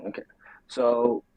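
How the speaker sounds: muffled, underwater-sounding mic. Real, not acted. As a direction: voice through a bad muffled mic. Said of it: "you sound like you're underwater".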